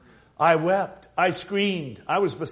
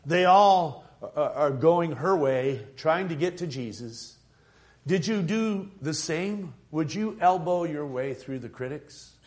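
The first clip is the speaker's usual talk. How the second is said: preaching; 2 semitones higher than usual. Acted. Preacher urging the church to push through. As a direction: press the crowd with building fervour.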